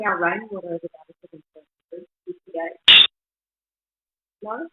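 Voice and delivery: cut-off, gated audio; noise reduction artifacts. Real, not acted. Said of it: "noise reduction is cutting you off".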